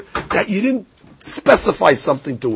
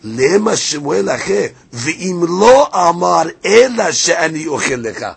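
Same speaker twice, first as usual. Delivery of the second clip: a louder, quicker singsong read of the Aramaic text; gemara reading tune; 4 dB louder, faster than usual. Shown as a demonstration. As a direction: chant the Gemara line like a yeshiva study partner. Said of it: "let's read that inside the Gemara".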